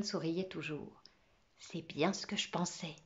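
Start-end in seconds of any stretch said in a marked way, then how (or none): 1.6-2.9 voix basse, discrètement contente; ravi. Acted. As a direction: satisfaction tranquille, dite plus bas. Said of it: "dit-il ravi". (ravissement discret, à voix basse)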